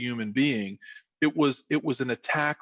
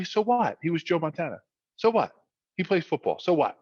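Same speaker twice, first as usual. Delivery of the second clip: high-pitched, unimpressed dad; dismissive; 5 semitones higher than usual. Retold or imitated. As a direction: shrug off the fame in a raised voice. Voicing unimpressed dad about star.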